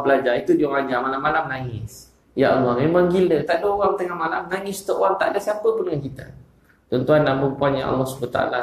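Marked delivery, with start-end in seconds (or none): 2.4-6.3 higher, moved and marvelling; awed preacher exclaiming; impassioned exclamation. Real, not acted. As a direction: raise it up in wonder. Preacher marvels at night weeping.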